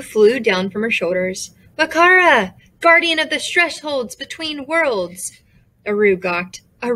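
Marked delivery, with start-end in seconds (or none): 1.8-5.4 calling out. Acted. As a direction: announce the guardian's name grandly. Boo calls out the guardian.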